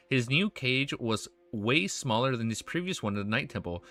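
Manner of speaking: steady, measured novel reading; story narration. A narrator's reading. Streamer reads dark fantasy to viewers, in story narration. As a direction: read the tale aloud, falling at sentence ends.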